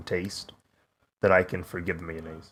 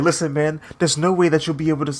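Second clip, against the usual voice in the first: scientist's stern advice; 7 semitones higher, 5 dB louder, faster than usual. Retold or imitated. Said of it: "the black scientist is like".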